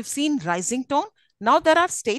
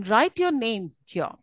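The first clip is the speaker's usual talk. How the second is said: "write your name here" as a falling command; slower than usual. Shown as a demonstration. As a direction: drop the pitch towards "here". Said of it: "These are all the examples of falling tones".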